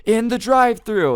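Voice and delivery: very high, loud, furious demand; acted-out outburst at the manager; imitated screaming. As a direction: shriek it as the enraged customer. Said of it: "'cause she's screaming".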